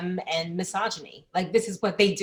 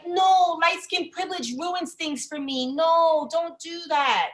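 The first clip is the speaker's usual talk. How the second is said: higher, drawn-out mock plea; mock protest; 7 semitones higher, slower than usual. Comic imitation of a woman defending her privilege, mock protest. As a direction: protest like you're being robbed of a perk.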